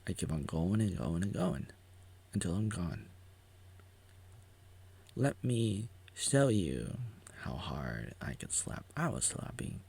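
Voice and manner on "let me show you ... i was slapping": whisper. Acted.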